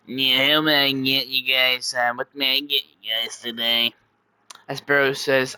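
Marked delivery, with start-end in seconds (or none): 0.1-3.9 waiter in a slightly put-on voice; a hint of a put-on server; lightly voiced waiter. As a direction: take the order in a light character voice. Voices a server taking orders.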